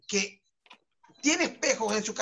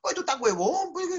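put-on Peruvian accent; 5 semitones higher than usual. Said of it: "el acento peruano".

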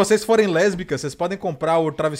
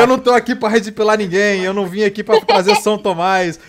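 excited; 4 semitones higher, 8 dB louder than usual. Real, not acted. Mock confession, rising.

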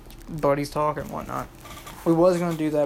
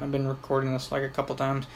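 blocked nose, congested voice; stuffy nose. Real, not acted. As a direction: talk through a stuffy nose. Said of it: "I'm a little stuffy at the moment".

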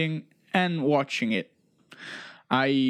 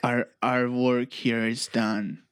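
alien voice; 5 semitones lower, slower than usual. Retold or imitated. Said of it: "is this supposed to be an alien voice".

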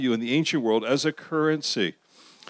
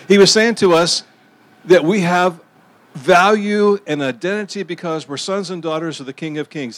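louder to carry over a passing train; raised voice; 2 semitones higher, 5 dB louder than usual. Real, not acted. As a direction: push the voice over the train noise.

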